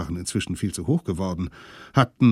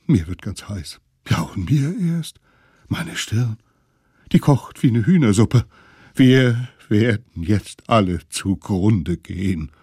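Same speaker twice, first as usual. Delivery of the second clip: jammernd; 5 dB louder than usual. Acted. Alte jammern über Fieber.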